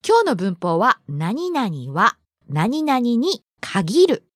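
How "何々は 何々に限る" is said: slow model phrase. Shown as a demonstration. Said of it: "teacher slow model phrase".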